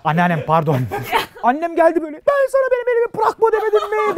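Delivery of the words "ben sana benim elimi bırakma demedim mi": high mock-shrieking mother; scolding mother. Mother scolds her son for letting go of her hand, high. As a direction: scold like a frantic mom.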